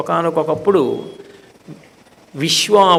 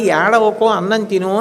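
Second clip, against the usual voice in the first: lightly voiced aunt, a touch higher, coaxing a crying child; 3 semitones higher than usual. Aunt coaxing the crying child to eat, lightly voiced and coaxing. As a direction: soothe the toddler like a doting aunt. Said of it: "అంది అత్త".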